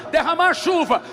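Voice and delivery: normal talking voice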